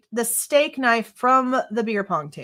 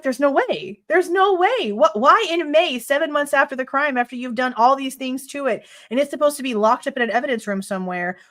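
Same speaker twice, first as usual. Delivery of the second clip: exasperated disbelief; 3 semitones higher than usual. Retold or imitated. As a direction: protest in rapid-fire disbelief. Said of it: "That's why I'm like".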